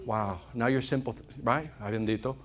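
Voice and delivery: quiet compassionate sigh of sympathy; sympathetic. Retold or imitated. Sympathetic thought after learning.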